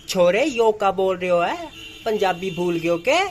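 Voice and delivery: light Haryanvi village twang, teasing; a hint of a Haryanvi uncle scolding a boy; Haryanvi accent. Vlogger jokingly scolds himself in a light Haryanvi accent. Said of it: "जैसे कभी हरियाणवी".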